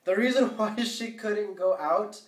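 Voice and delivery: holding back a sneeze. Real, not acted. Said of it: "I'm trying to hold it".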